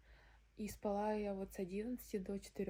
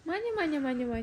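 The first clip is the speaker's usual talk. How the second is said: calling out; 5 semitones higher, 10 dB louder, faster than usual. Real, not acted. Calling the cat.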